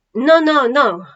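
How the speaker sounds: interrupting. Acted. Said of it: "interrupted the centurion".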